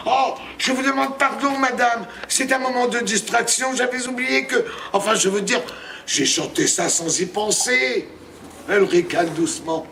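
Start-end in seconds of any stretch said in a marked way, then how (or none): 0.1-8.1 nervous apology. Acted. Apologizing to the witch.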